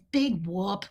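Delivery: dismissive big whoop. Retold or imitated. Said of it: "Kristen Wigged me again".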